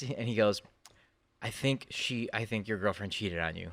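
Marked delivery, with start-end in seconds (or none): 1.4-3.7 imitating serious friend. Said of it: "He's all serious".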